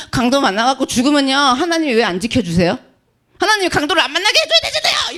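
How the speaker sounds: mock whining complaint, rushing and rising with a laugh; whiny believer. 강도를 만난 신자가 하나님께 따지듯 투덜대며. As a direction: complain to God like a spoiled child.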